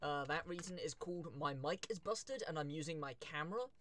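soft mic-level voice, still clear; quiet but clear. Real, not acted. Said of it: "if I sound a bit quiet".

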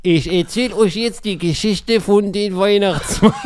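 put-on slow, high Moroccan German storyteller accent. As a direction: tell a Christmas tale in Moroccan German accent. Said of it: "aber so auf Marokkanisch".

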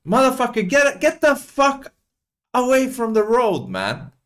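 shouting driver stuck behind protesters; angry yell at protesters. Acted. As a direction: bark it at the people blocking the road. Yelling at protesters on road.

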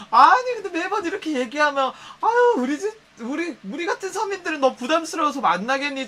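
high, whiny mock complaint; hammed-up self-pity. Friend mocking a bragger with fake self-pity. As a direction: overplay the poor-me sulk. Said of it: "막 이런 식으로 막 얘기를 해".

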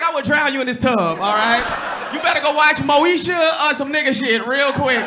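joking angry father; mock dad threat. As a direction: threaten her like a fed-up dad. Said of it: "I'm like".

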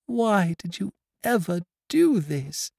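put-on high, loud girl's lament; tortured anguish. A narrator's reading. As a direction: pour out a heart near breaking. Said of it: "tortured, as it seemed, almost beyond endurance".

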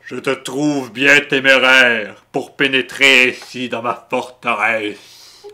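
lightly hammed-up villain; slow theatrical villain menace. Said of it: "C'est pas pire, ça".

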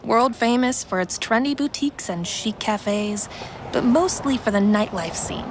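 usual speaking voice

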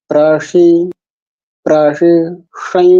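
প্রাসি, সাই with retroflex sh in সাই. Shown as a demonstration. Teacher drilling retroflex sibilant, careful retroflex sh in সাই. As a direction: curl the tongue back to the place of ট for সাই. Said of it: "এই হচ্ছে মূর্ধ স এর উচ্চারণ করতে হবে".

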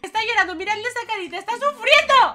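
mock pity. Mock pity for crying James.

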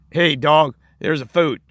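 gruff, matter-of-fact call to a dog; blunt owner. Retold or imitated. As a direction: bark it plainly at the dog. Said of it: "he'd say things like".

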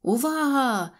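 high, ringing call for attention; shouting. A narrator's reading. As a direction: call the hall to order. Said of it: "закричав Гусля".

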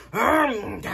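imitated gobbling grunt; mock eating noise. Showing viewers the upstairs eating binge, mock eating noise. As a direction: act out noisy eating. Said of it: "you didn't hear me upstairs eating".

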